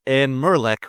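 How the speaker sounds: Merlek read in a mock Scottish accent. Shown as a demonstration. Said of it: "in a Scottish accent, I'd prefer".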